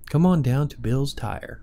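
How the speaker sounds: smooth radio ad read. Shown as a demonstration. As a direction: sell it like a DJ commercial. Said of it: "was that your radio voice".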